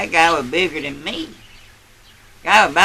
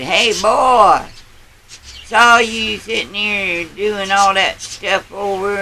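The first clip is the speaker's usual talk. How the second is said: higher, louder jeering redneck; taunting redneck; 5 semitones higher, 5 dB louder, slower than usual. Retold or imitated. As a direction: heckle him like a diner bully, higher and louder. Rednecks taunting a man in diner.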